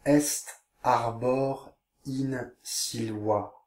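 slow, drawn-out Latin reading. Shown as a demonstration. Teacher reading the caption slowly to pupils. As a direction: stretch every word slowly. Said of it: "Je vous lis la légende".

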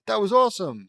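high, loud excited cheer. Acted. Kids cheering after scare.

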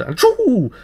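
high, whooping exclamation; excited cry. A narrator's reading. Narrator whoops each leap of the dancing child, high. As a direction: fling it out with the leap.

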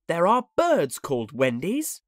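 put-on high, eager child voice; boy's voice. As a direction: remember it eagerly. Slightly explains.

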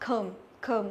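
"com" with an ơ vowel; careful syllable demo of "com"; schwa demo. Shown as a demonstration. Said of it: "tức là âm ơ ấy".

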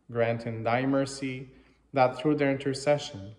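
measured, slightly projected liturgical reading; formal prayer reading. Real, not acted. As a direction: read it out as a collect addressed to God. Reads the English prayer aloud.

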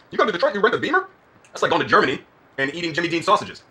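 exaggerated Southern American twang; put-on Southern accent. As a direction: tease in a hammy Southern accent. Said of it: "putting on a Southern accent".

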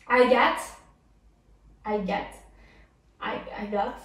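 English said with a French accent. Shown as a demonstration. Dance teacher attempts the song lyric, French-accented English. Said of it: "avec mon super accent anglais".

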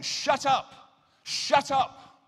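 woman screaming at the preacher. Retold or imitated. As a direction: yell it at the preacher. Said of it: "She was screaming".

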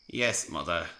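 sighing. Acted. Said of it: "sighed the thin controller".

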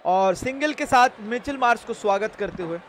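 lifted commentator's introduction; live play-by-play. Acted. Streamer introduces the new player to viewers, commentary voice. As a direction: open high, then announce the players.

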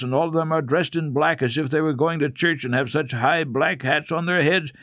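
scare him into learning; threatening. A narrator's reading. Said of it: "said threateningly".

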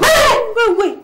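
high, insistent wait; sharp interruption. Acted. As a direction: cut him off hard. Wife cutting husband off.

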